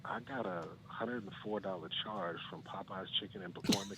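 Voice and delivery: whisper voice. Real, not acted. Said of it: "whisper voice".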